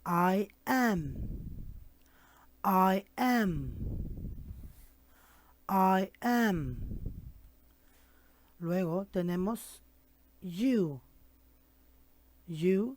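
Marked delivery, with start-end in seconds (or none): 0.0-6.8 "I am" repeated clearly, like a drill; pronunciation drill. Shown as a demonstration. Teacher drilling "I am" with the class. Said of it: "Repeat, please".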